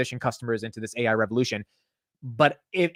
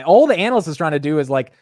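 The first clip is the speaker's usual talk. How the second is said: ordinary delivery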